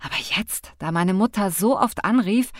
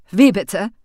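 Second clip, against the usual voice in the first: incredulous; 9 dB louder than usual. A narrator's reading. Incredulous driver.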